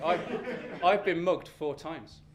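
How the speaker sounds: slow, loud deadpan punchline. Real, not acted. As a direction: hit it hard and slow.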